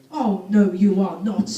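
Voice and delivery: a pantomime "oh no you're not" from mum; mock mum telling off. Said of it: "And she said".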